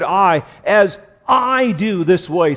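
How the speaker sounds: I singled out, then drawn out slowly; stress on I. Shown as a demonstration. Preacher showing an emphasized word, I stressed. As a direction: lean hard and slow on I. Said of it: "a way of emphasizing the word".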